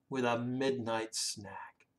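soft whisper. A narrator's reading. Reading the snack line as a hushed secret. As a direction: hush it like a secret. Crew chills out.

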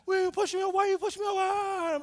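high, loud, wailing tantrum; mad kid. Retold or imitated. Soaked kid to cousin who pushed him, hammed-up mad wail. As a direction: yell it in hammed-up outrage. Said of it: "I'm all mad".

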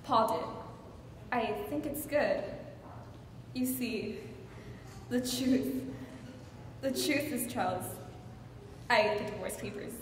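soft, halting admission with long pauses; subdued confession. Acted. Wife admitting the truth to Charles, subdued. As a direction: let the bravado drop and confess quietly. Wife's deflated confession to husband.

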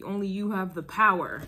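"power" punched with emphasis; stress on power. Real, not acted. Tarot reader telling Scorpio of their power, stressed. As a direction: lean hard on the word "power". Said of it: "Emphasis on the word power".

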